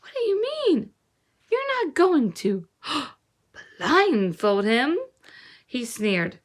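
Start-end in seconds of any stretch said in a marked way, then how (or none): 0.0-5.0 high, slow, gasping alarm; girl alarmed at what he will do. A narrator's reading. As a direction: gasp it out frightened. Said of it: "She was alarmed".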